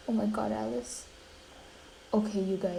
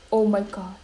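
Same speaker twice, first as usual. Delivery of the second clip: louder shocked exclamation, then a gasp; 4 dB louder than usual. Pretend. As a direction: react in mock horror and gasp. Reacts shocked to game scene.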